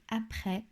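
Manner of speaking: "après" avec un è ouvert; accent grave. Shown as a demonstration. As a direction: say "après" ending on an open "eh". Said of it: "faire attention à cet accent, euh, grave". (« après », è bien ouvert)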